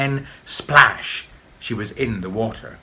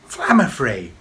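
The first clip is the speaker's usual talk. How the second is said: louder calling shout; 2 semitones higher, 6 dB louder than usual. A narrator's reading. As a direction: call out across the water. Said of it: "shouted Tam".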